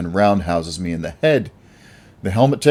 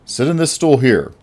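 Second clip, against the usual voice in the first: disguised voice; 7 semitones higher, 6 dB louder than usual. Acted. Masked hero gives order.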